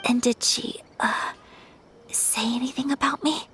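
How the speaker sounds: halting, nervous whisper; shy whisper. Acted. Nervous girl whispering to Paimon what the owner said. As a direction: whisper it, afraid of the answer.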